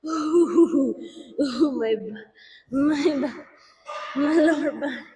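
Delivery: whiny pained groans; pained whimpering. Real, not acted. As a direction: whimper about your back. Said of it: "I'm being such a baby".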